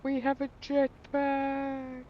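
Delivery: slow, high and loud proud announcement; triumphant. Real, not acted. Gamer proudly telling viewers about the new jetpack, slow high triumph. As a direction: trumpet it out, savoring each word.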